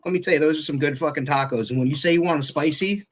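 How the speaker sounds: normal talking voice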